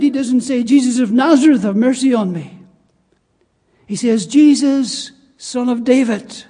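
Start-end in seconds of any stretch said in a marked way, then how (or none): 0.6-2.6 raised voice, imitating a plea; retold calling out. Preacher voices what the blind beggar did not say, calling out. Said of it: "when he calls out". 4.3-6.4 imitated call, louder on the name; retold calling out. Preacher quotes the blind beggar hailing Jesus, calling out. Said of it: "when he calls out".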